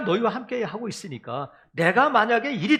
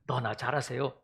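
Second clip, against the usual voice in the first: sarcastic retort; 8 semitones lower, 6 dB quieter than usual. Retold or imitated. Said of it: "이렇게 될 수 있는데".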